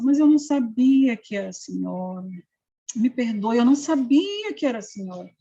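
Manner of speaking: imitating a pastor suddenly backing down; mildly contrite, retold excuse; changed, apologetic tone. Pastor asking the mother's forgiveness, mildly apologetic. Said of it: "aí mudou o tom, sabe, a entonação".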